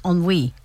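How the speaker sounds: ennui said the French way as on-WEE; French pronunciation. Shown as a demonstration. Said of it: "spelled E double N U I, but pronounced".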